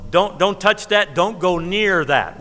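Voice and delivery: a hint of a parent warning a child, slowed; slow, mild parental don't-touch warning; parent warning kids. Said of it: "kind of do you do with your kids".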